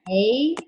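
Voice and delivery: "A" drawn out as the a says its name; long a stretched. Shown as a demonstration. Teacher stretching the vowel of lake as a clue, long "A". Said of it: "when I say the word".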